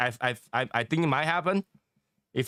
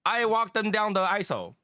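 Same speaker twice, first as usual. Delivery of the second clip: put-on Asian accent; 5 semitones higher than usual. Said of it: "they don't pronounce aisle".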